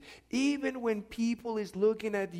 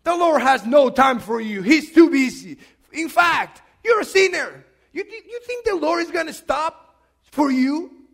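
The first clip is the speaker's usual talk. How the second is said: loud, acted rebuke; scolding crowd; 5 semitones higher, 12 dB louder than usual. Followers of Jesus turning on the blind man, scolding loudly. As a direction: dismiss the beggar with a raised voice. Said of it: "looking back at this individual saying".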